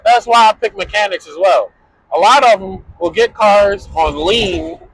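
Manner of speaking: talking while driving over bumps; on a bumpy road. Real, not acted. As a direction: voice jostled by a bumpy ride. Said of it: "Sorry for the bumps".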